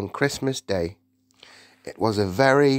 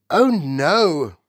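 frightened cry in her sleep; high, loud nightmare cry; sleep talking; 5 semitones higher, 6 dB louder than usual. A narrator's reading. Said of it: "it cried out".

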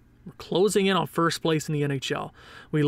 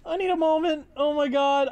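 mock heartbroken wail; about to cry; 9 semitones higher than usual. Real, not acted. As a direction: whine like you're about to cry. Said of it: "I'm gonna cry".

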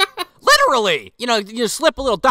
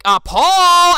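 much higher and louder sharp call of his name; 12 semitones higher, 9 dB louder than usual. Retold or imitated. Gwen calling Paul back from temptation, loud and high. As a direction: snap him out of it with a call.

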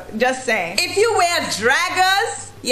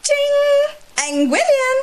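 ching exclamation; 12 semitones higher, slower than usual. Acted. Punchline exclamation again.

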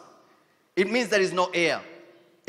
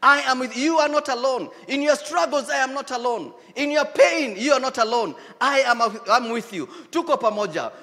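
higher, louder encouraging call; voice of God rising; 3 semitones higher, 3 dB louder than usual. Pretend. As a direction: build God's promise into a rousing call. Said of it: "hearing that voice of God and says".

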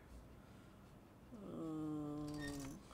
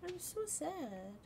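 mock sad; 10 semitones higher than usual. Mock sadness, high slow.

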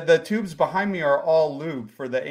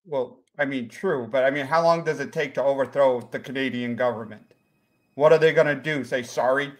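put-on light comic Jacksonville accent; 3 semitones lower than usual. Lost visitor explains himself to the host, light Jacksonville accent.

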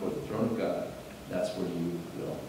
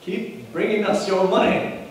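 mock prosperity preacher; 10 semitones higher, 7 dB louder than usual. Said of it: "the health and wealth churches are going to say".

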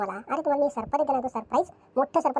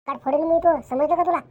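louder, raised threat; angry threat; 4 semitones higher, 5 dB louder than usual. Acted. First wife threatening the new wife, angry and loud. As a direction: snap a threat at her.

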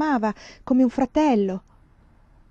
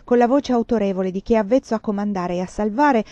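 plain reading voice

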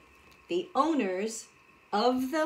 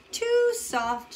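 high squeal; 13 semitones higher, 4 dB louder than usual. Acted. Sinking into soft chair.

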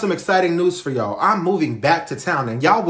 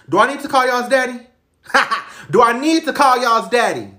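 laughing mock threat; 8 semitones higher than usual. Mom teasing her kids with their dad, laughing. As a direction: taunt them, giggling.

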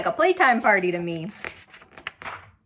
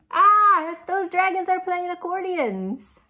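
delighted; 7 semitones higher than usual. Acted. Showing picture with delight.

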